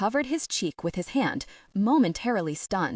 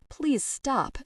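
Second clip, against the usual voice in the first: higher, pleading beg; begging; 6 semitones higher than usual. Acted. Tegan begs Noah to stop hitting the man, pleading. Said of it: "she begged".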